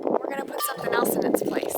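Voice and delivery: rough, breathy hoarse voice; a hoarse voice, words half unvoiced. Real, not acted. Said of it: "please excuse my voice".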